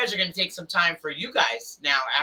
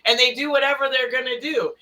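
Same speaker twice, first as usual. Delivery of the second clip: animated explaining; 5 semitones higher than usual. Retold or imitated. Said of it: "I'm like".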